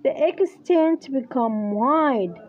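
English phrase read very slowly; slow dictation. Shown as a demonstration. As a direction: dictate it word by word. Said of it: "يقول". (إملاء بطيء)

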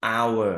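"hour" with the h left silent; "hour" opening straight on the vowel, h dropped. Shown as a demonstration. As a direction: say "hour" with no h sound, starting on the vowel. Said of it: "เราไม่ออกเสียงตัว h".

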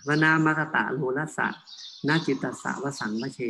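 "วนะ มคตะ รูรสะ นาจิตตัสสะ วสังวเช" split word by word; pausing by word group. Shown as a demonstration. Monk showing correct Pali reading, "วนะ มคตะ รูรสะ นาจิตตัสสะ วสังวเช" in short groups. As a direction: pause every two or three syllables in "วนะ มคตะ รูรสะ นาจิตตัสสะ วสังวเช". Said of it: "พยายามหยุดอยู่ที่สองหรือสามพยางค์ตามคำของมัน".

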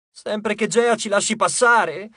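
slow, high and sniffly; sniffling. A narrator's reading. Weepy dwarf adds his worry, slow and sniffling. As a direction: sniff through the words. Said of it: "tirando su col naso".

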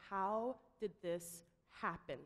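slow, heavy and grave; grave question. Retold or imitated. Tom confronts the room after the call, slow and grave. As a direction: let the question hang over the room. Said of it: "and says".

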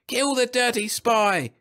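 high, drawn-out enraged scream. A narrator's reading. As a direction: scream the order slowly to a mob. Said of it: "screamed the speaker".

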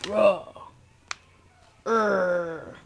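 puppet growling "raw" and "urgh"; mock-menacing growl; playful monster growl. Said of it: "That's my mean".

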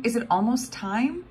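high, eager little voice asking; child bursting to know; eager question. A narrator's reading. Excited girl asking her grandpa. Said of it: "she kept saying".

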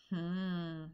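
a soft, pondering hmm; a quiet, considering murmur; thoughtful hum. A narrator's reading. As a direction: mull it over quietly. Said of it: "the maker spoke thoughtfully".

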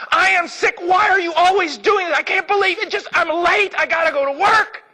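hammed-up husband ranting on his way out; angry husband. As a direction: whine at her, fed up and late. Husband's quarrel acted again.

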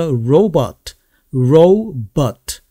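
"robot" slowly in two parts, ro-bot, long "ou" then open second vowel; two different Os. Shown as a demonstration. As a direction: break "robot" into slow, careful syllables. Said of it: "뒤쪽에 O 발음은 어".

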